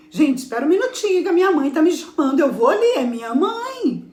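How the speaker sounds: acting out a quick interruption; hurried excuse. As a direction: rush it out, excusing yourself to the room. Acts excusing herself from a meeting.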